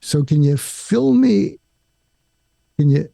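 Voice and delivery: calm listener drawing out a partner; calm, slow reassurance. Shown as a demonstration. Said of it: "this is the fud part".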